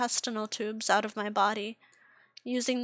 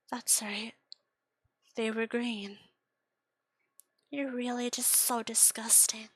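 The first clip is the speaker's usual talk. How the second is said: gentle sneer; 3 dB quieter than usual. Acted. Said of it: "So she says as she gently plunges".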